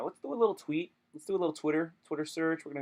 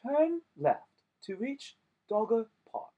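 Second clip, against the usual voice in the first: mock navigation voice; 8 semitones higher, slower than usual. GPS voice imitation.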